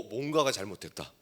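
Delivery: normal talking voice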